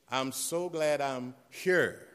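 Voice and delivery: slow, tender grateful words; slow glad testimony. Retold or imitated. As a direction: savor being alive, slowly. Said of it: "She said".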